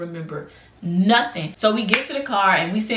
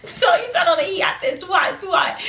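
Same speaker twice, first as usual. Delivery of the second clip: high, squeaky laughing retelling; cracking up at your own story; laughing while talking; 10 semitones higher than usual. Real, not acted. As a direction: tell it through real laughter.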